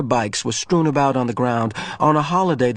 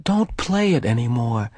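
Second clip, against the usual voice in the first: pleading. Acted. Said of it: "Jonas pleaded".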